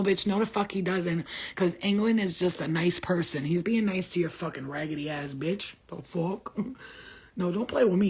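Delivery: ordinary talk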